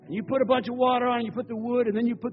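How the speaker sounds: preacher voicing a bold prophet; commanding Elijah. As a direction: bark out orders to the crowd.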